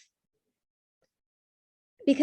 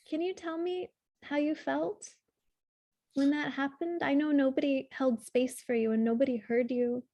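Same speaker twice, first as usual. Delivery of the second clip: put-on tender to inner child. Shown as a demonstration. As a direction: comfort a hurt boy who wasn't heard. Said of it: "talk to him as if he's actually a twelve-year-old boy".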